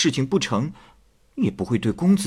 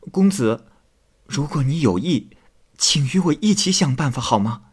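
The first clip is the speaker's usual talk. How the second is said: tearful maid pleading. Acted. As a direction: plead with him, stumbling over the words. Qingmei parting request.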